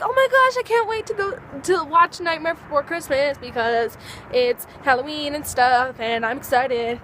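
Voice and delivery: imitating a gushy fan; mock excitement. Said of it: "when people are like".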